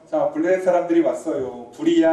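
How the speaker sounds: a half-hearted retold yell of warning; mock alarm shout. Delilah yelling to wake bound Samson, mild mock shout. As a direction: call out the alarm, not at full force. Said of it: "라고 소리를 지르죠".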